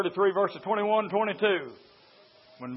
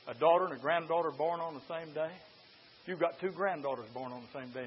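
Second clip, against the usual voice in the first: devil's taunt; 2 semitones lower, 8 dB quieter than usual. Acted. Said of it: "And here is the devil".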